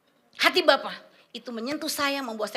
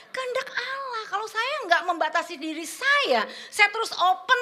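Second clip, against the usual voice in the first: tearful break; 7 semitones higher than usual. Real, not acted. Voice breaks while preaching.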